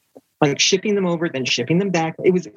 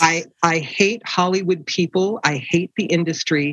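deliberate readout. Retold or imitated. Reads a harsh rejection letter aloud.

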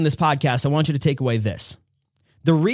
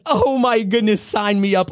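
excited gush; 5 semitones higher than usual. Acted. Kim voiced as thrilled fan.

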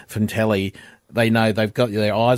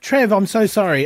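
much higher, giggling, tumbling apologies; flustered apology; 8 semitones higher than usual. Retold or imitated. Wife apologises to Trev after calling him Kev, giggling. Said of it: "was crying and laughing".

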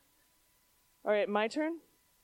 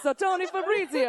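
put-on Italian mob accent; 11 semitones higher, 5 dB louder than usual. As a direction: ham up the name like an Italian mobster. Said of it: "Do the Italian mob impression".

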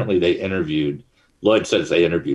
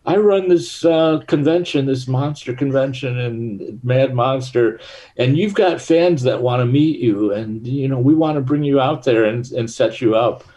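higher-pitched, excited pitch over the phone; excited caller; 7 semitones higher than usual. Retold or imitated. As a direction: imitate an eager caller, pitched well up. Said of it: "he got all excited".

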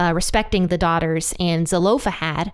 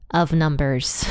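low, spooky "of Numbers"; startling boo; 5 semitones lower, slower than usual. Pretend. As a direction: drop the voice to scare. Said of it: "Did I scare you guys? I was trying to".

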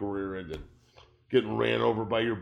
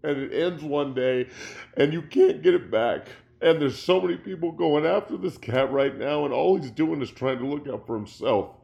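real upset, voice pushed up and louder; emotional; 3 semitones higher, 4 dB louder than usual. Real, not acted. Ex-player defending a retiring quarterback, emotional. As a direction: plead with raw emotion, building in force. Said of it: "I'm sorry I'm getting emotional".

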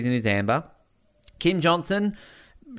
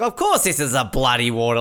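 mock gusto; 4 semitones lower than usual. Shown as a demonstration. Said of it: "say it with a bit more gusto".

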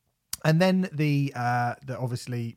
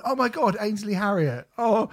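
higher, louder gushing strangers; mock excited fans; 6 semitones higher, 3 dB louder than usual. Bald host mimics strangers mistaking him for celebrities. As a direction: gush like starstruck passers-by. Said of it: "people have come up to me and gone".

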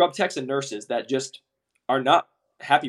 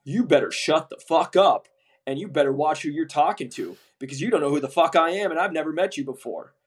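stern comeback; 3 semitones higher than usual. Retold or imitated. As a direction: put him back in his place. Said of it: "my rep had to be like".

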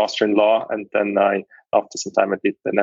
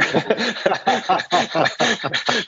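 long high laugh; 11 semitones higher than usual. Real, not acted. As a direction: laugh it off warmly. Laughs at own remark.

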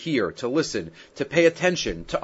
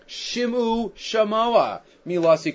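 pleading; 7 semitones higher, slower than usual. Retold or imitated. Rereading the plea, higher and slower.

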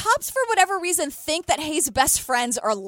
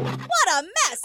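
Valerie Cherish impression; 7 semitones higher, much slower than usual. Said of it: "a really bad Valerie Cherish impression".

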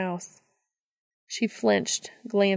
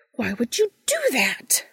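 whispered, higher and frustrated; 6 semitones higher, 3 dB louder than usual. Acted. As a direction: hiss it out in frustration. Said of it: "she said, frustrated".

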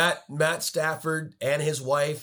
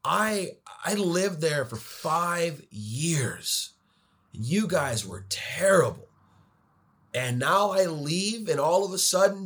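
mock-bitter outburst climbing higher; bitter rant; 5 semitones higher than usual. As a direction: vent like a jilted ex-resident. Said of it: "I was very bitter about that".

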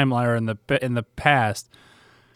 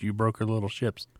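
whispered quote; 3 semitones lower, 9 dB quieter than usual. Retold or imitated. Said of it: "she has that small line".

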